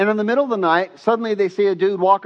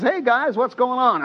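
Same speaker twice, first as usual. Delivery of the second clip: light, higher-pitched casual hail; cheery greeting; 7 semitones higher than usual. Retold or imitated. Jesus greeting the fishermen next morning, cheerful. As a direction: act out a breezy morning hello.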